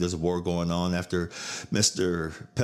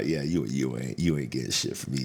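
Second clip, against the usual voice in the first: voicing aunt; 5 semitones lower than usual. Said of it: "she would look at me like".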